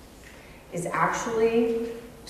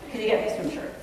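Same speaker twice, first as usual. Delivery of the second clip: casual, softer throwaway request; super casual; 6 dB quieter, much faster than usual. Acted. Son asking parent in passing, super casual and soft. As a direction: toss it off quietly, like an afterthought. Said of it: "just super casually".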